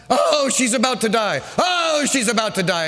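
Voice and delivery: lightly hammed-up lament; mock wailing. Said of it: "they're crying and they're wailing".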